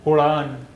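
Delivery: उड़ान said whole, with a flapped ड़; blended word. Shown as a demonstration. Teacher blends syllables into a word for pupils. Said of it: "अब आप इसे पढ़िए".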